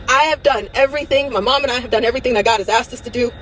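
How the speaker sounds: trying to stay okay while close to crying; holding back tears. Real, not acted. Speaking to her followers, close to tears. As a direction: voice cracking as she fights not to cry. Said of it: "I'm trying not to cry".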